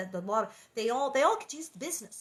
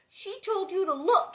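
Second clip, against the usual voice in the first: higher, louder scream; 10 semitones higher, 7 dB louder than usual. A narrator's reading. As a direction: scream at her sister to go. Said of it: "Carrie screamed".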